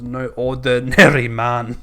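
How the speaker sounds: hammed-up Scottish storyteller; Scottish accent. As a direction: slip into a put-on Scottish accent. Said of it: "I don't know why I thought to say Scottish in that bit".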